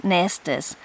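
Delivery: nestus, two syllables, nest-us. Shown as a demonstration. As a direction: say nestus with an extra syllable on the end. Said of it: "variant plural form of two syllables".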